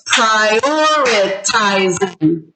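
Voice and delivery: "prioritizing" slowly split as pri-or-i-ti-zing; syllable by syllable. Shown as a demonstration. Teacher sounds out a word for counting, "prioritizing" syllable by syllable. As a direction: stretch "prioritizing" with a gap between syllables. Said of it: "how many syllables was that".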